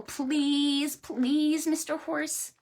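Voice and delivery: pleading. Acted. Animals begging Mister Horse to slide downhill, high pleading. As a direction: wheedle with long-drawn pleases.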